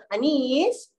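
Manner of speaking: gentle order with a lifted, rising end; nice intonation. Shown as a demonstration. Teacher demonstrating a kindly order to Anis, gentle. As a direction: give the order kindly, unhurried. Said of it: "kalau intonasi kita yang baik-baik".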